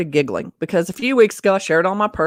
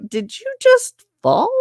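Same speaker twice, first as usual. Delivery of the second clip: much higher, slow "did you just fall"; surprised coworker; 14 semitones higher than usual. Retold or imitated. Coworker asking in disbelief, high and slow. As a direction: pitch it up in disbelief. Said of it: "She's like".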